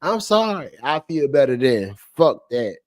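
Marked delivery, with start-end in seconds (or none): 0.0-0.7 high, pleading mimicry of a crying enemy; mock begging. Imagined rival begging him for mercy, mock high whimpering plea. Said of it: "when I see you begging".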